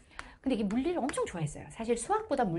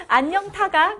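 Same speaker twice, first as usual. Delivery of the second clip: higher, laughing retelling; deskmate's wrong answer; 11 semitones higher, 12 dB louder, much slower than usual. Retold or imitated. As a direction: quote the silly answer while cracking up. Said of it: "내 친구".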